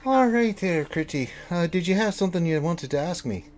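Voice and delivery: high, loud "oh", then settling; high-pitched tinkerer, suddenly attentive; startled absent-minded tinkerer. Acted. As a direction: snap out of your thoughts as the inventor. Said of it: "Just get his attention".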